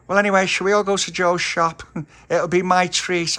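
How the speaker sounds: high, loud cheerful offer; brightly change the subject; cheery girl. A narrator's reading. Polly offering treats, high and cheerful.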